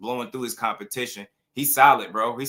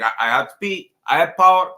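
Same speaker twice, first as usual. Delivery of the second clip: loud Cuban-accent imitation, rising higher; playful mock Cuban accent, punched louder; 6 semitones higher, 9 dB louder than usual. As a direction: boast like the fighter in a joking Cuban accent. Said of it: "I'm just joking with the accent".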